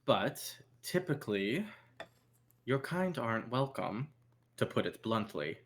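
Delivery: measured club owner with deliberate pauses; guarded club owner. Acted. Club owner questions unwelcome visitors about the bouncers, guarded. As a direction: make the blunt warning in unhurried phrases. Game master plays Yuri.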